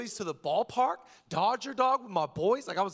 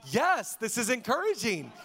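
relieved dad; 3 semitones higher, slower than usual. Retold or imitated. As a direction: cheer on a kid who woke up happy. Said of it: "if they wake up happy".

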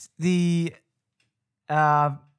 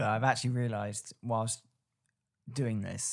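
hungover; 4 semitones lower, 8 dB quieter than usual. Real, not acted. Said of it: "I'm so hungover".

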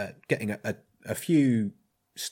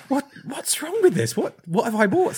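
much higher, imitated worried questioning; concerned; 5 dB louder than usual. Hotel owner worrying over what he bought, concerned. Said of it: "He was, uh, more concerned".

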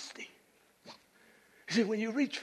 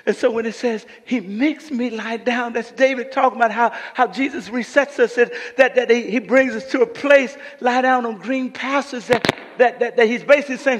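animated preaching; 4 semitones higher, 11 dB louder than usual. Acted. Preaching with raised force.

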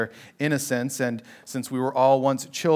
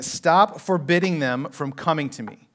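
firm, indignant command; stern, angry order; 3 semitones higher, 3 dB louder than usual. Shown as a demonstration. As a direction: rebuke them sharply, stressing the first word. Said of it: "it's indignant. He's saying".

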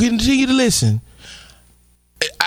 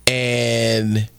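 respectful voice; 12 semitones lower than usual. Pretend. Host explaining the clip to viewers, in a lightly voiced respectful tone. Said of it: "I'm speaking the way I am because I wanna be respectful".

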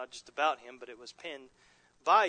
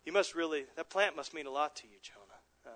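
counselor's gentle reflection. Retold or imitated. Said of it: "wipe the smile off my face and say".

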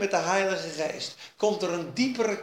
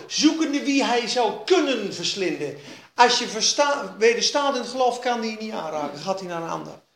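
ordinary delivery

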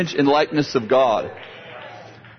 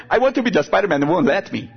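put-on whiny little girl; 3 semitones higher, faster than usual. Girl complains to grandpa.

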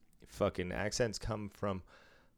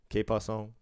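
Spanish accent; 2 semitones higher than usual. Shown as a demonstration. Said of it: "throw a little more of the accent".

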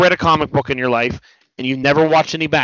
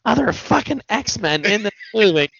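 higher-pitched mock complaint, speeding up; retold bitching; 7 semitones higher than usual. Retelling Deadpool griping about missing X-Men, higher mock whining. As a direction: imitate a movie hero griping, pitched up. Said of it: "where he's bitching".

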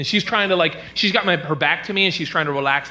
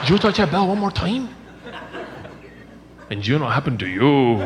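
low, menacing warning; stern mom threat; 3 semitones lower than usual. Retold or imitated. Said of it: "she turns around like a bullwhip and goes".

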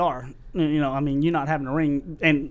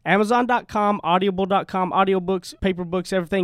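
ad read. Acted. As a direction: sell the book like a radio spot. Host plugs his book.

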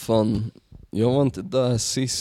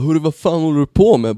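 mock telling off; 5 semitones higher, 4 dB louder than usual. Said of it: "skälla ut dig".

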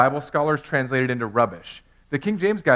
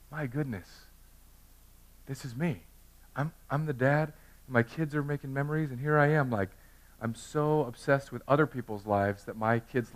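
softer, dawning inner voice; inner realization; 6 dB quieter than usual. Retold or imitated. Dad at Disney catching himself on his phone, softer. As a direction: hush it like a private thought. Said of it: "And I thought".

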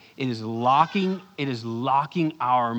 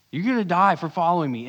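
the warning again, louder and higher; louder, emphatic repeat; 5 semitones higher, 7 dB louder, faster than usual. Retold or imitated. Jesus repeating his warning to Peter, louder and higher. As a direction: press the line home the second time. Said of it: "Jesus just said to Peter".

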